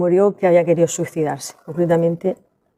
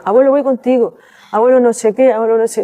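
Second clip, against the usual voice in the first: put-on childish calling; 4 semitones higher than usual.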